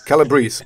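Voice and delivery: Calabrese repeated as KAL-uh-breece; English pronunciation. Shown as a demonstration. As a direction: echo Calabrese in three syllables. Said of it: "How you say it in English?".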